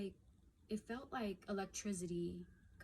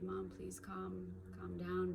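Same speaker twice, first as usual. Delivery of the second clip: soothing mom; 5 dB quieter, slower than usual. Retold or imitated. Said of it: "I try to say".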